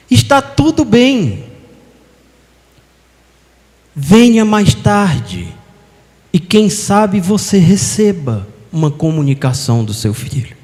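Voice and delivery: slow, soothing elder voice; slow consolation. Retold or imitated. Chico Xavier promising a grieving mother news of her son. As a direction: ease her pain slowly.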